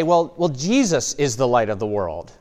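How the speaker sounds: a light mock of a pious deflection; deflecting mock quote. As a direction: pass the buck with a shrug. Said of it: "as we say".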